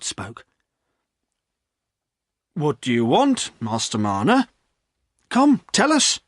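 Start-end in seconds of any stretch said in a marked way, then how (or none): 2.5-6.2 landlord. Acted. Landlord urging breathless Silas, coaxing. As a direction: draw the story out of him.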